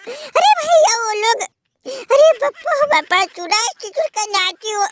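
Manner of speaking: hammed-up sobbing complaint, dragging the words; mock wailing lament. Losing team fan wails to his brother, hammed-up sobbing. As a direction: wail like a beaten team begging for pity.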